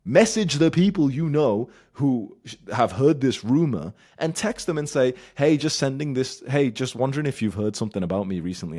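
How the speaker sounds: high and loud, driving it home; loud urgent instruction. Real, not acted. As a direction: push him to act now. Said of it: "urgent instructions".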